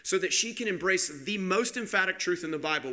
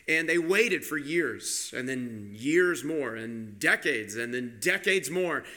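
slow, weighted words, sinking lower as they go; drawn-out waiting; 4 semitones lower, slower than usual. Real, not acted. Preacher tells congregation of Abraham and Sarah's long wait, drawn out. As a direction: drag out each stretch of the wait.

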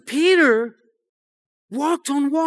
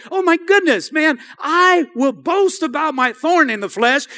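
excited Paul; 5 semitones higher, 4 dB louder than usual. Acted. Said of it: "he turns it over to say".

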